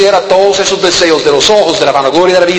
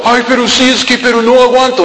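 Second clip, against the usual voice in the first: whiny excuse; 5 semitones higher than usual. Retold or imitated. Imitated excusing youth.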